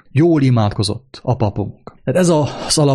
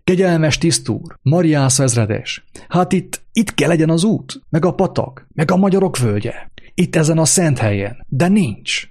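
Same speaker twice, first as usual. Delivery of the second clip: pleading interpreter; 5 semitones higher than usual. Acted. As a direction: beg the officer in a panic.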